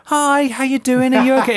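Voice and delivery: high, sweet concerned actress voice; mimicking the costumed actress asking if I'm ok; woman in black voice. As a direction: imitate her kindly checking on you.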